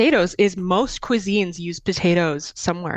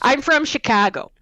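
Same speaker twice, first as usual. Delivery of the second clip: put-on Chicago accent; 6 semitones higher than usual. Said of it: "I can do Chicago accent".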